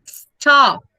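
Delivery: Stop, p barely there; light final p. Shown as a demonstration. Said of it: "leve o p, mas tá lá".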